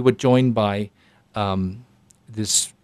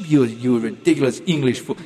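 French taunt. Retold or imitated. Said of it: "this Frenchman from the Monty Python series".

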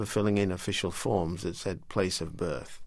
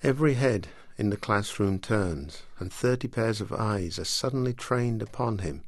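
measured literary reading voice; story reading. Acted. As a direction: read it like an audiobook. Author reads from her novel.

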